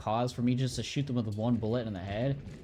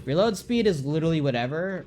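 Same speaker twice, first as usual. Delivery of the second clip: dismissive; 5 semitones higher, 7 dB louder than usual. Real, not acted. Dismissive rant about upgrades.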